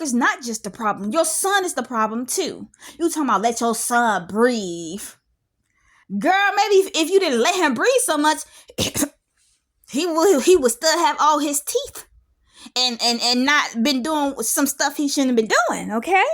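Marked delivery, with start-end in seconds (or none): 6.2-16.2 sassy retort. Real, not acted. Sassing the mother.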